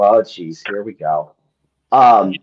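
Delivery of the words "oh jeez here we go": put-on low, weary older elf; resigned sigh. Older elves seeing trouble coming, resigned sigh. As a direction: let it sink down, resigned. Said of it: "just kind of sigh and go".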